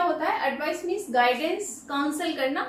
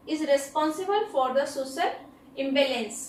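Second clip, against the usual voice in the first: very slow, every word spaced out; slow dictation; much slower than usual. Shown as a demonstration. Teacher reading an example sentence very slowly to students. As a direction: read it out slowly so students can write it down.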